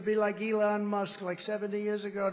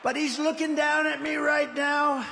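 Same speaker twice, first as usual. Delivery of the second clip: emphatic repeat; 7 semitones higher, 5 dB louder than usual. Real, not acted. Repeating line louder.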